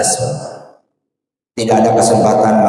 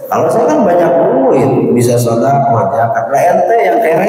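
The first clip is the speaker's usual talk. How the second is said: quoting the rich man. Retold or imitated.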